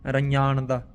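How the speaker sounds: ਰੰਜਾਨ ਦਾ with palatal "ny" in place of "j"; correct nyanya sound. Shown as a demonstration. Teacher modelling a hard letter, ਰੰਜਾਨ ਦਾ with nasal "ny". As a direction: say ਰੰਜਾਨ ਦਾ as "ra-nyaan-da". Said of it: "ਥੋੜ੍ਹਾ ਇਹਦੀ practice ਕਰਿਆ ਕਰੋ".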